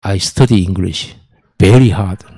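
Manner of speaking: very slow, deliberate English with a laugh; mock English recitation. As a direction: drag out each English word while chuckling. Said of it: "혼자 중얼중얼하고". (웃으며 아주 느리게 또박또박 영어 읽기)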